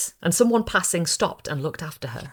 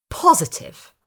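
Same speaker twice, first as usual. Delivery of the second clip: Positive leapt up high with weight on POS; emphatic; 11 semitones higher, 3 dB louder, slower than usual. A narrator's reading. Florist assuring the bride about the man, emphatic. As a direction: insist with full certainty, a touch hammed. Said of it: "the florist said emphatically".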